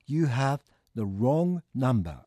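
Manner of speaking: very slow, evenly spaced English; drawn-out, word-by-word teaching delivery; repeat-after-me model. Shown as a demonstration. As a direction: say it slowly for learners to copy. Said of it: "続けて言ってみてください".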